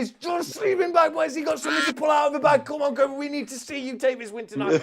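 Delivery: high-pitched, breathless call of the finish; excited race commentary. Real, not acted. Commentator calling the last seconds of the race, frantic excitement. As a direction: cry out the final seconds at full pitch.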